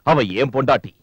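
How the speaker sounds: high, heated, threatening rant; furious possessive tirade, pitched high; angry shouting. Acted. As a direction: shout down the in-laws, voice climbing. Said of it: "ஏன் இப்படி கத்திக்கிட்டு இருக்கீங்க".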